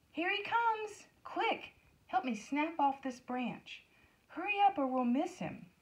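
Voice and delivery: high, excited calling out; excited crowd voices. A narrator's reading. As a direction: urge your friends to hurry, thrilled. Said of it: "they could hear excited voices".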